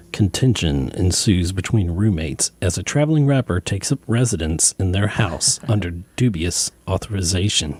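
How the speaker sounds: low-pitched radio announcer read. Shown as a demonstration. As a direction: drop your voice into a playful radio tagline read. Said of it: "I gotta do my radio voice here".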